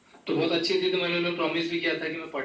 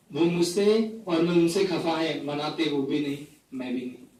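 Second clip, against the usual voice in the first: poetry recitation. Acted. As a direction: recite it, letting the refrain fall away. Recites a poem to audience. (कविता पाठ, टेक पर धीमी पड़ती आवाज़)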